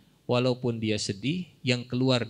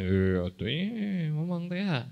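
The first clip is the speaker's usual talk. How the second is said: mock boastful; 5 semitones higher, slower than usual. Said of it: "Kelebihannya gimana?".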